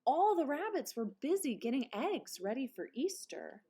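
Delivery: plain reading voice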